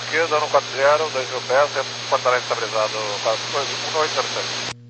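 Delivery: radio transmission; over a crackly radio; crackly military radio. Real, not acted. Pilot reading back on radio.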